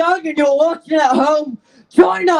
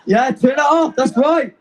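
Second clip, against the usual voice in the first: breathless after shouting; winded, catching breath. Real, not acted. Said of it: "Sorry, I'm out of breath".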